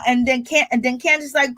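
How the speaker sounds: ordinary delivery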